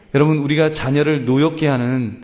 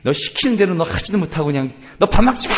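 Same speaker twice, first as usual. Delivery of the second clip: acted mother's cross scolding; mildly hammed-up maternal telling-off; angry mother; 3 semitones higher than usual. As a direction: snap at the child in mock anger. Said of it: "엄마가 화가 나갖고".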